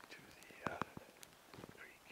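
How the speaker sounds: whisper. Real, not acted. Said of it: "I have to whisper".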